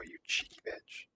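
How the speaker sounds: ordinary talk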